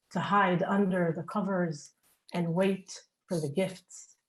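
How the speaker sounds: deliberate reading, pausing between phrases; measured spoken-word poem; poem recital. Acted. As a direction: open lines firmly and let them fall away. Reads own poem aloud.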